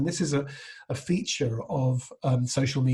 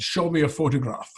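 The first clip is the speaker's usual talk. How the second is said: Connery asking; 3 semitones higher than usual. Retold or imitated. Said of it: "and Sean Connery said".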